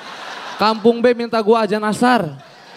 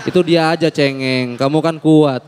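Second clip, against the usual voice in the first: mom reassuring; 8 semitones lower than usual. Retold or imitated. Mom reassuring son again.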